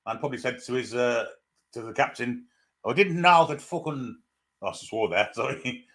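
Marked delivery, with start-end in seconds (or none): 2.8-4.2 bad, drawn-out mock Irish accent; slow, higher, hammed-up Irish brogue; Michael Higgins. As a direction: put on a terrible Irish accent. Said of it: "that's a terrible accent".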